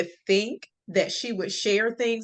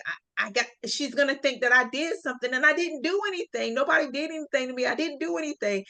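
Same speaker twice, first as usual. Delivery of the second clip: fast, high-pitched babbling defense; rushed panicked plea; 5 semitones higher, faster than usual. Retold or imitated. Girl babbling her innocence to mom, fast and high. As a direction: rattle it off in a scared rush. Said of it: "I'm on a defense".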